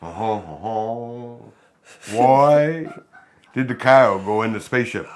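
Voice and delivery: lightly attempted crooning impression, drawn out; slow, loud mock-crooner joke telling. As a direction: do a hammy, bad impression of a famous singer with drawled uh-huhs. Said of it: "That's the worst Elvis I ever heard".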